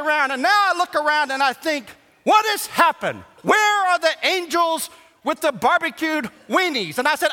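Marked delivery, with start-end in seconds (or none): 2.2-7.0 mock cry. Mock plea for miracle weenies.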